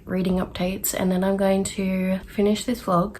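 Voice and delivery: breathless and winded; out of breath. Real, not acted. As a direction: talk while catching your breath. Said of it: "I don't know why I'm so out of breath".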